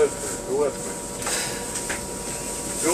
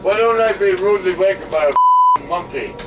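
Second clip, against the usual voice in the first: angry shout; 4 semitones higher, 5 dB louder than usual. Real, not acted. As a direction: shout it at the whole carriage. Drunk man yelling at passengers.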